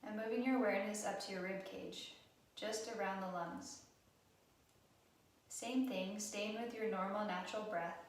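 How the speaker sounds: calm, even guided-meditation delivery with long pauses; guided relaxation. Acted. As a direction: gently guide them through breath awareness, unhurried. Leads a guided breathing relaxation.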